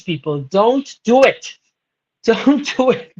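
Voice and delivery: slow plea, leaning on "do"; pleading. Real, not acted. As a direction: beg them slowly not to.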